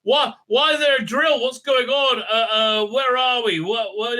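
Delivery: a lightly voiced, nagging busybody; annoying questioner. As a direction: badger them with question after question. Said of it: "just being annoying, asking all these questions".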